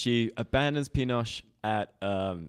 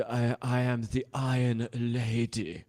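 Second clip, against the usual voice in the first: slow, drawn-out Iron Lady cadence, voice barely changed; Margaret Thatcher impression; slower than usual. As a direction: lightly mimic Thatcher, stretching the sentence slowly. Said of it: "I can do a Margaret Thatcher impression".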